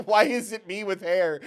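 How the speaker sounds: high, loud, through laughter; laughing disbelief. Real, not acted. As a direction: wail it while cracking up. Sees lookalike character, laughing.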